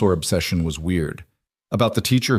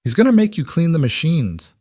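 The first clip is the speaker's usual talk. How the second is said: laughing; 8 semitones higher, 3 dB louder than usual. Acted. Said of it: "Daniel laughed".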